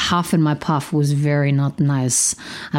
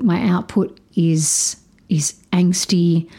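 slow whisper to herself; whispered thought; slower than usual. Retold or imitated. Self-reflection in the car, slow whisper. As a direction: breathe it out slowly to herself.

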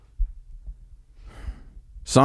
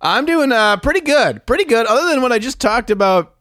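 much higher, sing-song answer; bright put-on cheer; high mock-cheery pretty good; high chipper voice; 13 semitones higher than usual.

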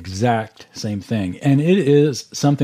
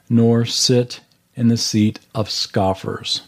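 scripture reading. Acted. Reads Psalm one verse aloud.

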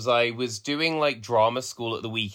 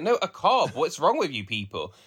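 mock exasperation; 3 semitones higher than usual. Retold exasperation at shop staff.

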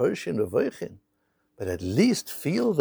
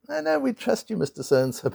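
high, quick-to-reassure bank official, acted; placating clerk; 6 semitones higher than usual. Bank clerk to a loan customer, placating.

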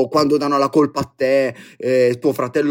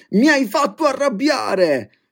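mock accusing; 13 semitones higher than usual. Quoting an accusing person.

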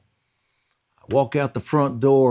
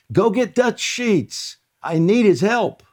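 loud, fierce cry; 11 semitones higher, 5 dB louder than usual. Retold or imitated. Praying man calls for Dutch Sheets, loud fierce cry. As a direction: bellow it for help with all your strength. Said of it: "with a very loud and fierce voice".

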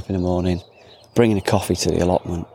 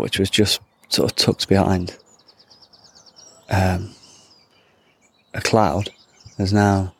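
ordinary talk, nothing marked

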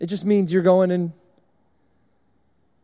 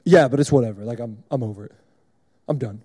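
lower, deep grumbling monotone; monotone Kason; 8 semitones lower than usual. Retold or imitated. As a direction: complain in a flat deep voice. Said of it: "kinda negative about stuff".

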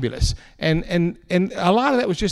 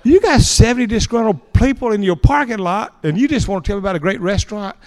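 incredulous thought; 6 semitones higher than usual. Retold or imitated. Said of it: "And I'm thinking".

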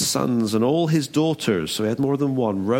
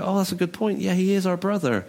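higher-pitched mock agreement; brothers readily agreeing; 7 semitones higher than usual. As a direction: play brothers seeing the point. Brothers cheerfully agree with Judah.

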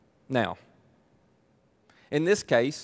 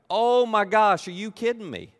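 amazed shout; 6 semitones higher, 4 dB louder than usual. Acted. Amazed disciples voiced.

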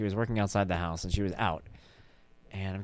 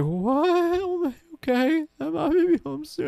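shocked dad; 5 dB louder, slower than usual. Retold or imitated. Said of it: "I was like".

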